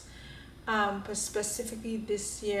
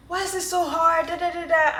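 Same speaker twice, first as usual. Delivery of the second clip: higher and louder, retold frustration; replaying her own meltdown, louder and higher; freaking out; 8 semitones higher, 8 dB louder than usual. Retelling struggling with the shelf, mock frustrated outburst. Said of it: "So I'm freaking out".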